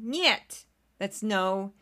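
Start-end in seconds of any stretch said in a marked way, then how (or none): 0.0-0.7 "Нет" pitched up in a sneeze-like burst; sneeze-like nyet. Shown as a demonstration. Showing listeners Russian no, "Нет" like a sneeze. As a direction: let "Нет" out like a small sneeze. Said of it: "sounds like you're kind of sneezing".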